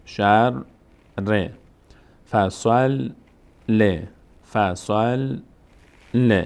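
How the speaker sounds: "شر", pause, "ر"; "فصل" held on l, pause, "ل"; doubled letters, split. Shown as a demonstration. Close "شر" and "فصل" on the consonant, then say it separately with its vowel.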